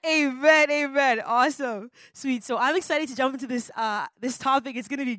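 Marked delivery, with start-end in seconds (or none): 0.0-1.2 high, loud congregational amen. Real, not acted. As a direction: shout the amen back with the room. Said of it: "And everybody said".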